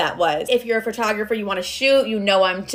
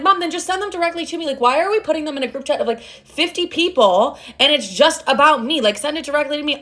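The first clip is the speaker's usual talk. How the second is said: exasperated pleading; 5 semitones higher than usual. Retold or imitated. Retold argument over group chat quotes.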